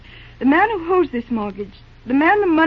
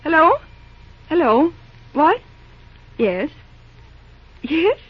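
raised voice, calling down a phone line; 3 semitones higher, 3 dB louder, slower than usual. Acted. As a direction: call out to someone who may have hung up.

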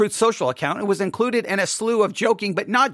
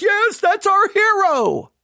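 mocking church voice; 9 semitones higher, 3 dB louder, slower than usual. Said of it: "the American church is like".

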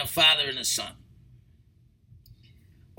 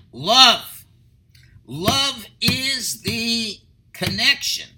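Love landed hard and loud as the answer; emphatic answer; 2 semitones higher, 5 dB louder, much slower than usual. Real, not acted. Rabbi answering how to connect them, loudly. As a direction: punch the single word Love.

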